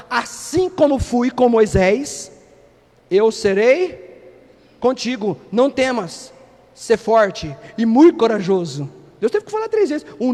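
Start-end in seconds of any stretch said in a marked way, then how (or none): 0.1-8.9 very slow, deep and solemn; God's reassurance. Retold or imitated. God promising Josué his presence, slow and solemn. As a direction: stretch out each word like a promise. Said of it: "falou assim, ó".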